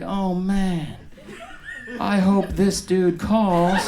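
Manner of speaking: a mock anxious doc; worried doctor. The dermatologist wondering if the patient will call, a hint of fretting. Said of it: "The guy's gonna be like".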